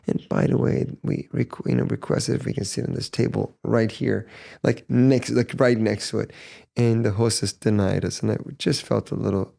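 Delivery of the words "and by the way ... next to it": gentle soft tone. Retold or imitated. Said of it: "with such gentle, soft tone of voice".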